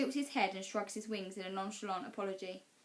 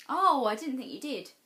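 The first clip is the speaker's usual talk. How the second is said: lightly voiced boy, a bit higher; easy friendly boy reply; boy's voice; 5 semitones higher, 10 dB louder than usual. A narrator's reading. Boy reassuring Marinka at the wall, lightly voiced.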